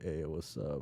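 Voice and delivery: reply casually as the guy, barely acted; lightly voiced guy. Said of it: "And then he's like".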